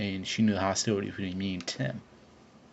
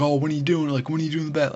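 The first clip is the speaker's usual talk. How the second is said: higher, louder imitation of an eager crowd; mock excited; 6 semitones higher, 4 dB louder, faster than usual. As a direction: pester like hyped-up friends. Crowd pestering him about bet.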